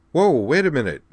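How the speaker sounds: loud, high call to stop her; calling after Juri walking away. Acted. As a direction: shout after her to wait. Calling after departing friend.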